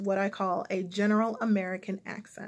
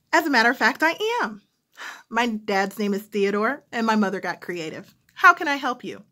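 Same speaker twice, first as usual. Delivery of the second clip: phone operator voice; 4 dB louder than usual. Retold or imitated. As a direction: explain politely, then push back to business. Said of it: "phone operator".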